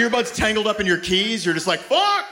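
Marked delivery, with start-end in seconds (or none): 1.8-2.2 very high, exasperated curse; frustrated outburst. Acted. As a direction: let out a mock-frustrated yelp. Acted curse at tangled earbuds.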